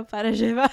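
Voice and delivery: llevar with a zh sound, sheh-var; Argentine llevar. Shown as a demonstration. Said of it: "say je instead of the y sound".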